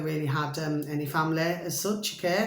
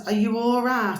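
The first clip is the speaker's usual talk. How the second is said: raised, higher calling through the letterbox; 5 semitones higher, 4 dB louder than usual. Retold or imitated. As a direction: call out her question, louder and higher. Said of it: "so I was shouting her name".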